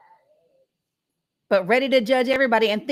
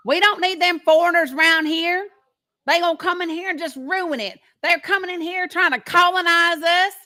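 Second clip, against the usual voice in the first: mock Southern patriot; 5 semitones higher than usual. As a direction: ham up a proud small-town Southern patriot accent. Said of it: "Do y'all know somebody said that to me?".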